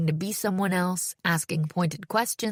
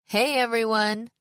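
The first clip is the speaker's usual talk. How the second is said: lifted, slightly raised call to the room; emcee greeting; 4 semitones higher, 3 dB louder than usual. A narrator's reading. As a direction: greet the crowd into a mic. Host addresses the poetry slam audience.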